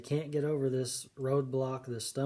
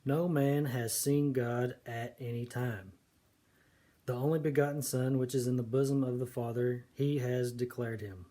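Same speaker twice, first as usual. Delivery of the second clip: scripture reading. Shown as a demonstration. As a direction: read the verse out steadily. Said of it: "John one eighteen says".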